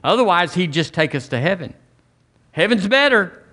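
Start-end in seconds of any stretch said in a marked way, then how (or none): 2.5-3.4 emphatic exclaim. Real, not acted. Preacher exclaims heaven better.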